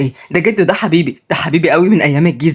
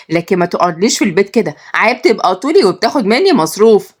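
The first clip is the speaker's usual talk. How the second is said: scolding mother; 2 semitones higher than usual. Acted. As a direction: tell the lazy son off sharply.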